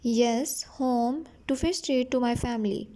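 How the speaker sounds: slow, careful reading of the English text; slow story reading. A narrator's reading. Teacher reading the English line slowly to her students. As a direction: read each word out slowly for the class.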